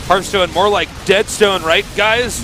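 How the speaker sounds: high, loud put-on gamer voice; mock gamer jibe. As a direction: deliver a hammed-up lame joke to the crowd. Mock gamer joke for nerdy chat.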